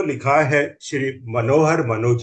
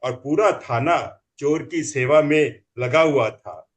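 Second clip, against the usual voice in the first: comic poem recital; 2 semitones higher than usual. Acted.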